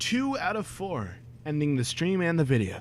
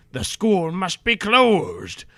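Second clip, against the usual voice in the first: loud slow yell; 5 semitones higher, 7 dB louder, slower than usual. Acted. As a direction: bellow it out slowly. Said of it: "yelled Cornelia Fudge".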